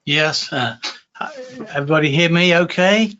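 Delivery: ordinary talk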